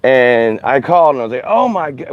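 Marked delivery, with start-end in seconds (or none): 1.4-2.1 high-pitched retold "oh no" moment; mock-panicked exclamation; retold alarm. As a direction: reenact a dismayed phone call, pitch leaping up. Retelling his panicked phone call.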